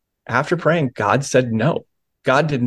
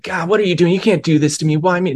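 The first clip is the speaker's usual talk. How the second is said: a pastor demos the angry, accusatory way of asking God "why me"; mock accusatory prayer; 6 semitones higher, faster than usual. Shown as a demonstration. Pastor demos the wrong way to pray, accusatory and angry. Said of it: "it wasn't one of those, like, angry, accusatory".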